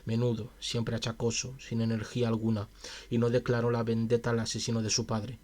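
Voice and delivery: measured, even audiobook reading; story narration. A narrator's reading. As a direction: read the tale aloud steadily. Reads a story aloud. (narración de cuento)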